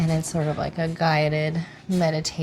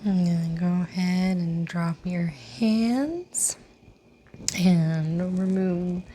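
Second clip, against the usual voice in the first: guided meditation. Real, not acted. Yoga teacher inviting class to set an intention, guided meditation. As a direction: lead them gently inward, lingering on the phrase endings.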